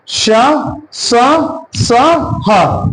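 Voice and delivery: श, स, स, ह each said alone, with pauses; letter-by-letter demonstration; sounding out letters. Shown as a demonstration. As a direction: spell out श स स ह slowly. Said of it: "इनकी संख्या कितनी होती है?".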